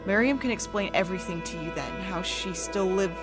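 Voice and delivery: hushed, eerie storytelling. A narrator's reading. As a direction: narrate a gothic horror tale. Horror story narration with music.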